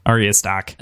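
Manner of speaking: Stark said as Stahk, Boston accent; quick Boston accent on Stark, r dropped. Shown as a demonstration. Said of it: "Stark, it's Boston".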